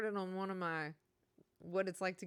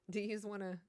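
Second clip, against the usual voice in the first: Jersey accent. Shown as a demonstration. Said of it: "you say "yous".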